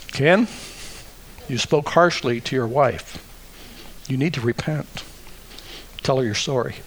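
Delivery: gentle correction. Acted. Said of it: "conviction says".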